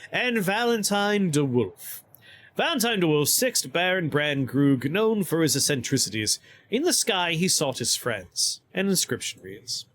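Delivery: measured, formal narrator's reading; inscription reading. Acted. Streamer reads a baron's inscription aloud, inscription reading. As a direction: read out a noble's titles with ceremony.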